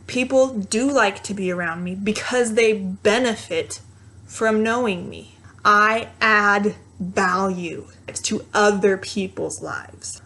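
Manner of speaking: firm, deliberate self-affirmation. Shown as a demonstration. Speaker telling the inner voice it is wrong, firm. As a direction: assert it steadily with deliberate pauses. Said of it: "Use it and say it firm".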